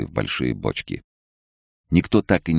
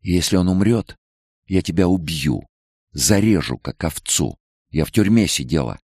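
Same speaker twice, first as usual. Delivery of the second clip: a hint of hateful threat, higher; menacing threat; 6 semitones higher than usual. A narrator's reading. Nicole threatening the head doctor over her son, menacing. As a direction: threaten her, deadly serious. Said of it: "с ненавистью глядела".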